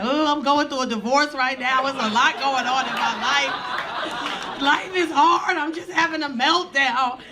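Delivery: tearful wail, hammed-up; mock crying. Passenger breaking down to flight crew, hammed-up crying. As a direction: blubber through a retold meltdown. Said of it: "I start crying".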